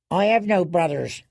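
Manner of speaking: put-on frightened girl. A narrator's reading. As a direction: voice a scared girl denying it. Frightened girl denies her brothers.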